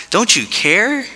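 a hurt, pleading cry upward; whiny plea. Pretend. Churchgoer pleading with God after a hard week, high whine.

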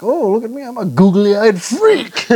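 high, laughing mock whine, slow on the second line; imitating a self-mocking character through laughter; mocking self-insult. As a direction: lampoon the poor guy with a shrill laughing voice. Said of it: "and he's like".

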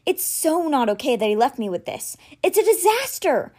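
put-on overwhelmed boy crying out to his friend; anguished cry. A narrator's reading. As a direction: cry out the unfairness. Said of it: "he cried".

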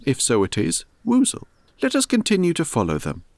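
a gentle puzzled bear thinking aloud; a hint of a pondering teddy bear; Pooh Bear. Pooh reasons about tracks.

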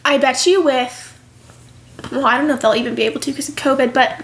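talking through hiccups; hiccuping between words. Real, not acted. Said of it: "I'm sorry, guys, I have the hiccups".

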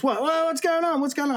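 high-pitched, flustered neighbour's son; imitating startled reply. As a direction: act out someone wondering what's happening. Voices neighbour's son responding to calls.

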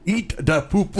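put-on high, goofy baby voice; mock toddler singsong; silly baby talk. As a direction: say it like a giggly toddler. Jokey baby-talk line.

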